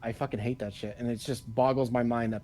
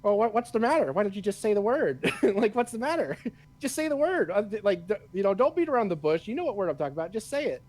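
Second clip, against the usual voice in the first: teasing, pitched way up and pushy; mock-goading impression, voice raised high; goading Samuel L. Jackson; 7 semitones higher than usual. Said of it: "was like".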